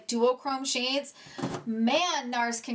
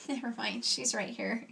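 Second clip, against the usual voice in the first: laughing; 4 dB quieter than usual. Real, not acted. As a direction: laugh it off sheepishly. Finds the missing lipstick.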